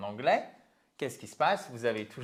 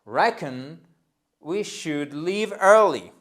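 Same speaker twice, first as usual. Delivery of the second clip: slow pronunciation model; 6 dB louder, slower than usual. Shown as a demonstration. Teacher asking learners to pronounce, slow chunked model. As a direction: lead a repeat-after-me, pausing between chunks. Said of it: "prononcez I reckon".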